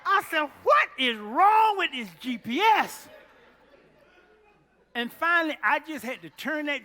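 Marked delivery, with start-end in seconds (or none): 0.0-3.1 loud, high outcry; exasperated shout. Real, not acted. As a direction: shout the frustration out. Lost, preacher peaks.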